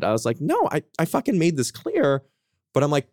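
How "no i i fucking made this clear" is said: higher-pitched retold exasperation; mildly frustrated. Telling how he answered an upset date, mildly frustrated. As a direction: push back with a touch of exasperation. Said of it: "I also was a little frustrated".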